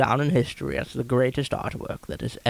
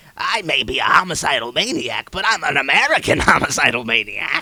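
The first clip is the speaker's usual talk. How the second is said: loud, belted-out villain-style voice; 2 semitones higher, 6 dB louder than usual. Retelling the scene where Joker learns Red Skull is a Nazi, in a Joker impression. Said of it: "he goes something along the lines of he goes like".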